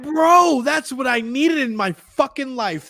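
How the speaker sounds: high, emphatic outburst, drawing out the words; retold excitement. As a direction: exclaim it like long-awaited relief. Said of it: "I'm like".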